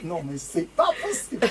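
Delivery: parlé à travers un vrai rire; en riant. Real, not acted. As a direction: rire d'incrédulité amusée. Réagit en riant aux paroles. (en riant, pas possible)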